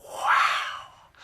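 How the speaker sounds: awed whisper; hushed amazed wow. Acted. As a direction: breathe it in wonder. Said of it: "whispered Harry and Emily".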